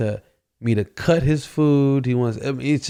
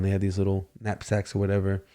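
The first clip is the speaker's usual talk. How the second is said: ordinary talk, nothing marked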